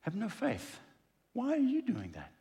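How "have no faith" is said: "no" pressed, slightly higher; stress on no. Shown as a demonstration. Preacher stressing the lack of faith, "no" hit. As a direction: lean into "no" in "have no faith". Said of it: "People who act like that".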